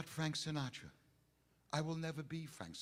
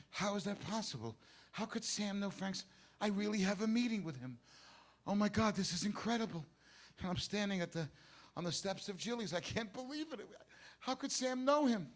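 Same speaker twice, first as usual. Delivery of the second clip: amazed disbelief; 4 semitones higher than usual. Acted. Amazed at seeing Sinatra appear.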